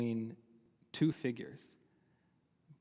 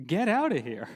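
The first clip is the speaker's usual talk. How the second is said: louder, sharper "Get out of here"; fed-up dismissal; 3 semitones higher, 6 dB louder than usual. Retold or imitated. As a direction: bark him out of the room. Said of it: "fed up, is like".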